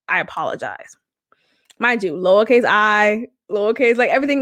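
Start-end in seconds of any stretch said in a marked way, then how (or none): 0.1-1.0 mocking whisper. Reading his one-line apology text aloud in a mock whisper.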